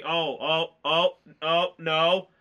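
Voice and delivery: mounting dread. Retold or imitated. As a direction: relive seeing it coming, voice building. Reliving dread at film's climax.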